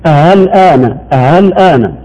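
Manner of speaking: أها الآن with an added h sound; overdone easing. Shown as a demonstration. Showing how some wrongly read الآن. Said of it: "مبالغة في نطق التسهيل".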